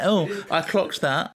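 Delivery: slow, self-satisfied mock boast; smug mimicry. Teasing the co-host who clocked it, smug mimicry. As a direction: mimic a smug know-it-all, drawn out. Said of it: "you're so smug".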